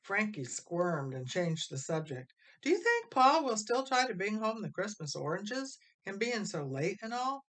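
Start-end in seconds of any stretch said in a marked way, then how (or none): 2.6-7.5 higher, louder worried question; a boy fretting about his father; anxious boy. A narrator's reading. Frankie asking the family about Pa, higher and anxious.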